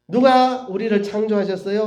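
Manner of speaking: acted teacher prompting a class; Sunday school teacher. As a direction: ask it as if to small children. Acts teacher quizzing small children.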